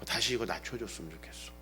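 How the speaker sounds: low, soft earnest appeal; serious request. Retold or imitated. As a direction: retell a husband's restrained plea for respect. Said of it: "한번 진지하게 몇 년 전에 얘기한 적이".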